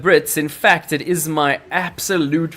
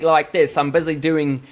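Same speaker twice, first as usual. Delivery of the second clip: mixed British accent. Shown as a demonstration. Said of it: "get better at the regional accents".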